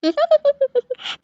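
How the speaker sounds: high, acted sob; sobbing. Niece upset at her aunt leaving, sobbing. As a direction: let out a high put-on sob. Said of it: "இப்படி அழுதுட்டு இருக்கா".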